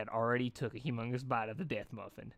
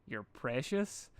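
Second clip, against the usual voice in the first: deadpan; much slower than usual. Acted. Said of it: "dashed deadpanned".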